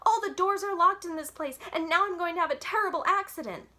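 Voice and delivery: high, loud pleading; desperate. A narrator's reading. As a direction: beg the operator frantically. Girl shouting into emergency phone.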